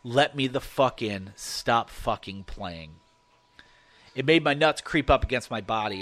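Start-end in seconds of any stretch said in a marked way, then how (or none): 0.0-3.0 slow, halting, unnatural thing mimicking speech; halting weird voice. Creature at the cabin door, slow halting imitation of a voice. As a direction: drag each word out like something that can't really talk. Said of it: "in this halting, weirdly toned voice".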